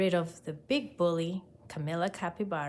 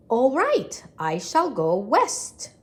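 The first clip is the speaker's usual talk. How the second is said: smug; 4 semitones higher, 6 dB louder, slower than usual. Acted. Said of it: "feeling very smart".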